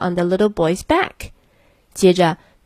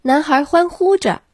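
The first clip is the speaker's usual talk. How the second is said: cheering; 8 semitones higher than usual. A narrator's reading.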